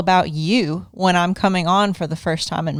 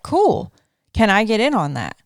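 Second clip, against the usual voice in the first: eager quote; 2 semitones higher than usual. Retold or imitated. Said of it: "And I was like".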